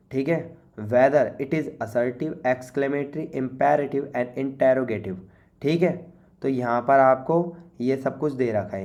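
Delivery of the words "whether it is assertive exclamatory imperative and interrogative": slow, deliberate reading of the task; slow read-aloud. Shown as a demonstration. Teacher reading the worksheet instruction slowly to students. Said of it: "reading the task aloud slowly".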